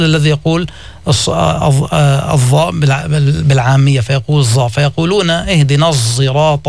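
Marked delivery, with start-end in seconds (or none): 5.3-6.7 الصراط with the sad tinged by a zay, close to zirat, slow; sad with a z sound. Shown as a demonstration. Teacher demonstrating ishmam in الصراط. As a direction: blend the ص of الصراط toward ز. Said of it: "إشمام الصاد صوت الزاي".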